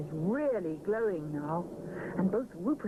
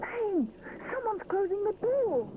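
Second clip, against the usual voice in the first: alarmed exclamation; 12 semitones higher than usual. Acted. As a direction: warn the others the door is shutting. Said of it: "exclaims Rupert".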